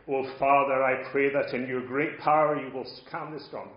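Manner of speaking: loud, grandiose public prayer; hammed-up plea to the Father; mock prayer. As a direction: pray showily, as if putting on a performance. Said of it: "utter a prayer".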